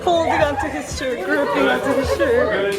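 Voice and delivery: squeezed in tight, laughing nervously; crammed in a tight space. Real, not acted. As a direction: talk while pressed in a tight spot. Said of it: "it's so tight in here".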